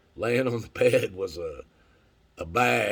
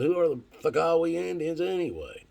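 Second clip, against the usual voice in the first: corrected version; 8 semitones higher than usual. Retold or imitated. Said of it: "I said".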